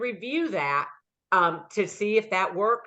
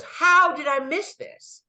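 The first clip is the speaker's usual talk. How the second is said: higher, slow mock dismay; dismayed neighbor; 7 semitones higher, 4 dB louder, slower than usual. Neighbor realizing he already accepted, mock dismay. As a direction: play the shocked neighbor lightly.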